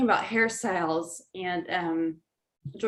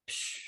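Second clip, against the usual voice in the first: soft voiceless hiss of air; quiet imitated whoosh; imitated "psh"; 12 dB quieter than usual. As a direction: let out a soft "psh" like a blast of heat. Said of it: "was just like".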